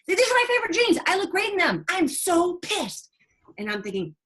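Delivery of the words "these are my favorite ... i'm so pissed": put-on much higher, louder teen-girl whine of pride; mock teen girl. Nurse mimics the teen bragging about her jeans, high mock whine. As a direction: ham up the girl's vain outrage, slowing at the end.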